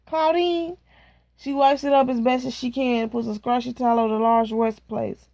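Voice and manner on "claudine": calling a name. Acted. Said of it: "she is calling in my name".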